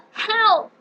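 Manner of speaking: very high sobbing scream; crying for help. Acted. Trapped girl calling for rescue, high crying scream. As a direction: wail for help.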